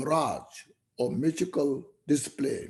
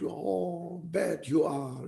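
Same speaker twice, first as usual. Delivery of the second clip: softer, drawn-out echo of a call; imitated echo; 3 semitones higher, 5 dB quieter, slower than usual. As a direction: play the mountain echoing the insult back. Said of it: "they will reflect".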